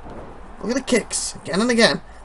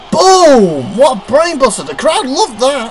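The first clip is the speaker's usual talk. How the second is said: shout; 2 semitones higher, slower than usual. Acted. Commentator calling a big move.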